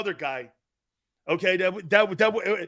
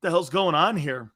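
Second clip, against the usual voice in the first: quick retold panic; 2 semitones lower, faster than usual. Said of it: "and I said".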